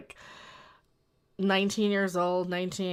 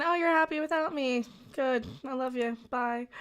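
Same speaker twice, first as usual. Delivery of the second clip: lightly raised, sugary send-off; sweet coaxing voice; 5 semitones higher than usual. Retold or imitated. Mock-sweet goodbye to a woman who seems happy alone. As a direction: coo it like a hurt lover letting go. Voicing imagined men's thoughts.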